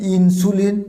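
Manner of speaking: ইনসুলিন as "in-su-lin", plain u; common mispronunciation. Shown as a demonstration. Teacher showing what learners say, ইনসুলিন as "in-su-lin". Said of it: "this is not insulin".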